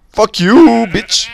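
high, loud taunt; yelled insult. Real, not acted. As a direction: throw the curse out high. Yelling at something in game.

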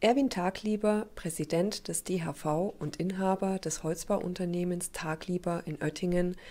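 scripted TV report narration; measured, informative broadcast read; news voice-over. Acted.

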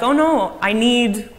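high, loud pretend cry of alarm; mock distress. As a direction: act out being in trouble for kids. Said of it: "but trouble like".

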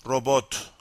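"Robot" stressed on the second syllable; Turkish stress on Robot. Shown as a demonstration. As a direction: say "Robot" with the final syllable strongest. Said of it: "stress is on the second syllable".

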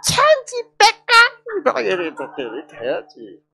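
경상도 사투리로 높고 길게; drawn-out Gyeongsang dialect. Shown as a demonstration. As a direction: sing out the Gyeongsang phrase high and drawn out. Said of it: "경상도 말로 어떻게?".

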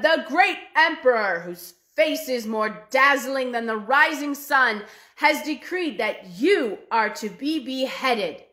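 loud formal decree, slowing at the end; proclaiming general. Acted. General to third brother, grand proclamation. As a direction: announce it like a herald.

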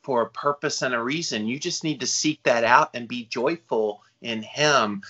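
lightly mocking a preachy Christian reassuring; a hint of sing-song piety, tongue in cheek; mocking churchy platitude. Host mocks what church people tell the grieving, lightly mocking. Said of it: "I'm mocking it a little".

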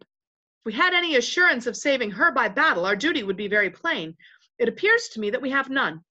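a touch of noble, firm oratory; lightly voiced gallant Reepicheep. Reepicheep defends the Queen's honor, lightly voiced gallantry. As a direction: lightly act a valiant knight's declaration.

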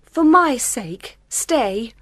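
high, slow imploring woman; pleading bride. Acted. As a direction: draw out a tender plea. Bride begs groom to stay.

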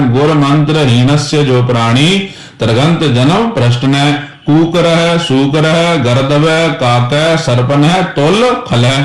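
verse with a break after ਭ੍ਰਸ਼ਟਨੈ; pause after ਭ੍ਰਸ਼ਟਨੈ. Shown as a demonstration. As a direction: rest after ਭ੍ਰਸ਼ਟਨੈ, then slow list. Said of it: "ਇਹਦਾ ਵਿਸ਼ਰਾਮ ਦੇਣਾ".

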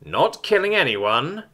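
grunted. A narrator's reading. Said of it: "Selvin's grunted reply".

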